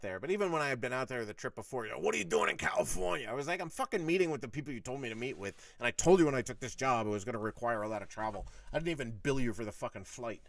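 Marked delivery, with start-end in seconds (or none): 2.0-3.3 higher-pitched, indignant mock challenge; mildly outraged imitation of the boss; retold demanding boss. Boss challenging him in retold quarrel. 3.6-10.4 firm, matter-of-fact pushback; understated defiant comeback; retold sharp retort. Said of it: "I said it to him like that".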